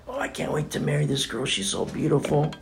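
eager groom. Retold or imitated. Voicing the groom.

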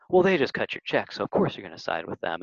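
whiny complaining quote, pitch up at the start. Retold or imitated. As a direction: whine it like a sulking rival. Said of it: "in such a whiny voice like I just did".

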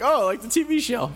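quoting himself. Retold or imitated. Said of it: "I'm like".

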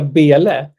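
a hint of Norrland dialect on Bele; Örnsköldsvik dialect. Shown as a demonstration. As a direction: say Bele slowly in a northern Swedish accent. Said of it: "säga det med lite dialekt".

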